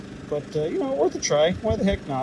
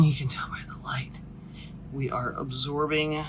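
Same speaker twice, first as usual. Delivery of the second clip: whisper; 8 dB quieter than usual. Real, not acted. Quiet aside about the light.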